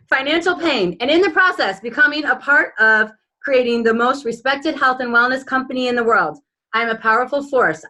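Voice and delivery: earnest reading of a personal vision statement; proud, measured affirmation read aloud. Acted. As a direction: declare each line like a vow. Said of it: "Let's hear it, Carla".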